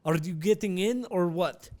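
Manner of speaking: imitating an impatient Russian driver; Russian accent. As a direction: put on a hammed-up Russian accent. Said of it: "find my Russian accent real quick".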